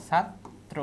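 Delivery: ছাত্র split in two, "chhat-tro"; teacher breaking ছাত্র into "chhat" and "tro"; pronunciation demo. Shown as a demonstration. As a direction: sound out ছাত্র slowly, ending on a clear o. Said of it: "ছাত্রের উচ্চারণটা দেখো".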